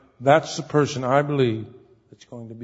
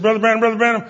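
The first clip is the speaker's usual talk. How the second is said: nervous excitement; 5 semitones higher, 3 dB louder than usual. Retold or imitated. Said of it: "He's so nervous".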